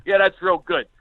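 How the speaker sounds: sarcastic mock praise, imitating an announcer; announcer with attitude. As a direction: scold the crowd with lightly voiced sarcasm. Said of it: "an attitude".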